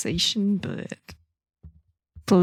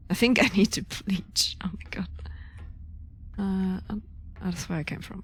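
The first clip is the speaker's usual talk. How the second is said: whispering. Real, not acted. Hushed reaction in a creepy game.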